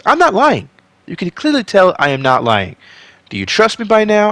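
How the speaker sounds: excited yelling to the audience; yelling at viewers. Real, not acted. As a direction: shout the intro at the camera. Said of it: "I don't know why I'm yelling at you".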